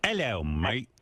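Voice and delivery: a brief mock-British greeting; British accent. Shown as a demonstration. Host showing he can do British, put-on British accent. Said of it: "You can't do British?".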